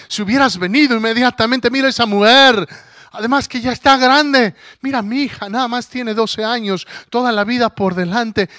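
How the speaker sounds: lightly voiced Jairo, pleading; pleading father. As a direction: beg like a desperate father. Jairo reproaches Jesus, pleading.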